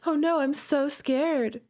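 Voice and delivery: high, slow, fake-frightened gasp; mock scared. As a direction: overplay the fear, clearly not meaning it. Sarcastic fright at popup error.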